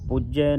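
ਪੂਜੈ with a doubled j, "puj-jai"; tight pronunciation. Shown as a demonstration. Teacher tells congregation this too is tight, firm ਪੂਜੈ. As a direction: press into the j of ਪੂਜੈ. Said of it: "ਪੂਜੈ ਪਾਠ ਵੀ ਸੰਗਤ ਜੀ ਕੱਸ ਕੇ ਹੈ".

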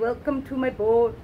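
slow, badly faked Scottish accent; slow jokey Scottish welcome; terrible Scottish accent. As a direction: play a mock Scottish captain, drawn out. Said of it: "That's a terrible Scottish accent".

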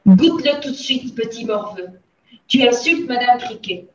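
loud, emphatic order; angry scolding. A narrator's reading. Mademoiselle Le Gourdin orders the gamin to taste, loud scolding. Headmistress scolding the boy in story.

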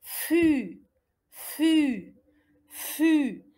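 "fu" with a long French u; syllable demonstration. Shown as a demonstration. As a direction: model "fu" as one held syllable. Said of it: "Ça donne".

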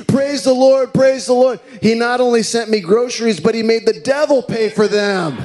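high, loud, jumping-for-joy shout; jubilant shout. Retold or imitated. Old lady celebrating the devil paid, high loud shout. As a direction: shout and clap with glee. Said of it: "jumping up and down and clapping as loud as she can".

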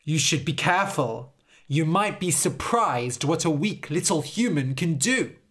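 lightly voiced, firm warning; defiant Harold. Harold warns the Fairy King, lightly voiced defiance.

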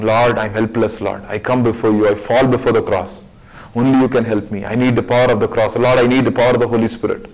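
humble prayer. Acted. Voices a prayer to God.

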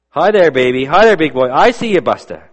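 a hint of a drunk stranger cooing at a baby; drunk old man.

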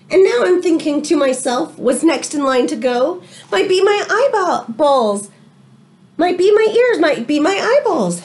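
lively read-aloud to the class; story reading. A narrator's reading. Teacher reading a storybook to her class, lively read-aloud. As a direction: tell it like a picture book to children.

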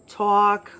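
"talk" in a thick New York accent. Shown as a demonstration. Showing how New York words slip out, New York accent. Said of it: "I don't really talk like that".

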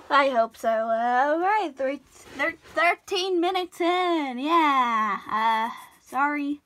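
lightly cartoony, loud voice; a hint of cartoon character, drawn out. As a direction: slip into a silly cartoon voice, loudly. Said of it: "I don't know why I'm doing this cartoony voice".

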